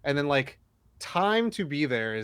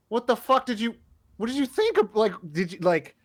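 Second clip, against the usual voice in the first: much higher, louder outraged mock rant; exasperated yell; 10 semitones higher, 3 dB louder than usual. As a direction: blow up at the assistant in disbelief. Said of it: "then I'll be like".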